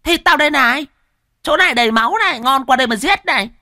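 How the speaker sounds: high, loud mocking woman's taunt; shrill taunting woman. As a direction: dare him to come and kill, jeering. A taunting woman voiced in story.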